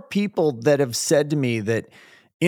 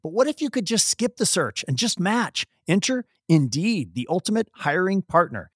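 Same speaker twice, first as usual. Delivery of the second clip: smooth, softer sponsor read; host reading the sponsor message; 3 dB quieter than usual. Acted. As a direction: read the ad like a polished spot. Reads sponsor ad.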